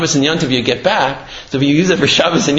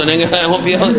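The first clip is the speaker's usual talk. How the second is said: laughing; 4 semitones higher, much faster than usual. Real, not acted. Rabbi laughs at his own punchline.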